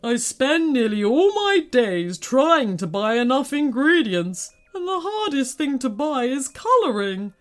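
high, put-on giant's lament; woeful lament. A narrator's reading. Tearful candy maker explains the theft, lamenting. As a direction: pour out the woes in despair.

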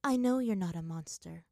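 understated motherly sorrow; a touch of sadness while consoling her; sad. Acted. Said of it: "Ursa said sadly".

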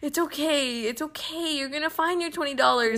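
lightly acted gentle reassurance; imitated reassuring dad. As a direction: play dad comforting a crying child. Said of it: "he was like".

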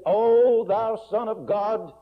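high, loud, slow anguished cry; loud, high pleading wail; demoniac's scream. Acted. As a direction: cry out in terror at the Son of God. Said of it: "So he screamed out and said".

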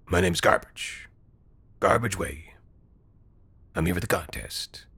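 quiet odd stranger; simple-minded stranger. A narrator's reading. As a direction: answer plainly, not getting the fuss. Garbage introduces himself simply.

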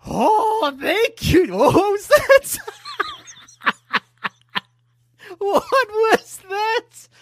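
high, slow singsong candlestick voice; a squeaky little candlestick talking. Pretend. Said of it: "Do the voice".

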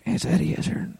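hushed whisper of the news. Retold or imitated. Texting wife about the celebrity, whispered. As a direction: whisper it so he can't hear. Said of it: "and I'm like".

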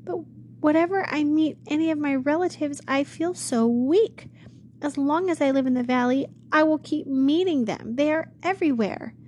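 put-on a scared young woman pouring out her fears; frightened girl.

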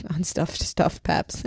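slow, breathy whispered repeat. Real, not acted. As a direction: whisper it slowly to yourself. Repeats the phrase, then whispers it.

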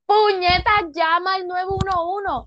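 más agudo y alto, urgente, mandando a Carla; grito imitado. Retold or imitated. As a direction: imita gritarle a la tele que llame al 911. Grita a la pantalla, imitado. (grito imitado a Carla, urgente y más agudo)

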